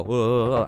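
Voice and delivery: voiced "whoa" of vibrating bass; imitated rumbling boom. Podcaster shows co-host a loud bass note, imitated boom. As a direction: make the noise of a huge bass note. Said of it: "this would go".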